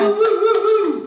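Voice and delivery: high loud repeated whoops; excited woos. Real, not acted. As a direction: cheer like at a party. Cheering in the stream.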